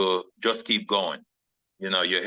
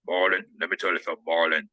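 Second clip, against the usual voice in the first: light Louisiana voice, lower at the end; Ed Orgeron; 4 semitones lower, faster than usual. Retold or imitated. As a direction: imitate a Louisiana coach, quick then low. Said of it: "he has this Louisiana voice and he talks like".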